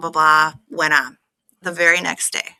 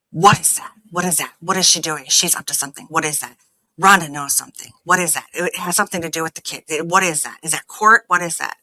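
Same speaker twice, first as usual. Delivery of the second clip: mock tizzy; faster than usual. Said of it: "he is in a tizzy, total tizzy".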